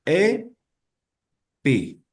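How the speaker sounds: "E, pi" split, E first and I kept. Shown as a demonstration. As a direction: sound out "E, pi" slowly apart. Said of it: "solamente cambia la primera vocal".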